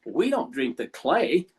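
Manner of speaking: slow, drawn-out disgust at the very idea. Retold or imitated. Caller recoiling at the host's question, disgusted and slow. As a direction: recoil from the thought of drinking it. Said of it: "in a disgusted voice".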